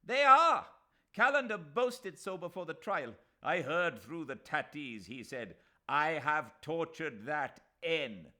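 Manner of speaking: high, loud insistence; heated shout. A narrator's reading. Mahmud Ali insisting against the Nawab, loud heated shout. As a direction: overpower the old man.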